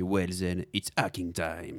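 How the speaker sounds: slow, drawn-out catchphrase delivery; movie catchphrase. Shown as a demonstration. Correcting a friend with the right film line, slowly. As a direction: savour each word like a film hero. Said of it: "La citation, c'est".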